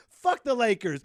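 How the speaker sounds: loud, punchy mock curse; mock angry shout. Mocking sports haters, loud mock curse. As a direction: bark it like a hater.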